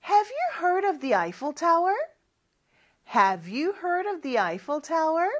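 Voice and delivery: slow rising question for the class to repeat; loud drill. Shown as a demonstration. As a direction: lead the class in a clear slow voice. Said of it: "같이 큰 목소리로 따라해 볼까요?". (큰 소리로 천천히 따라 하는 연습)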